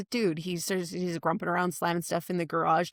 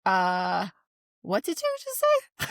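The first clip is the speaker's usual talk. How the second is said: husband stunned; slower than usual. Retold or imitated. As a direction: play him baffled and thrown. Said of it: "he was like".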